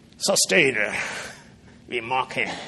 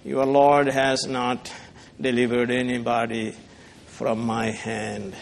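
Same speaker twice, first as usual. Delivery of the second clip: mocking; 5 semitones lower, 3 dB quieter than usual. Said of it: "And then he says".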